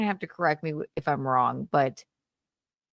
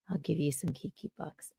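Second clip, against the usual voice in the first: whispering; 5 dB quieter than usual. Real, not acted. Streamer whispers an aside.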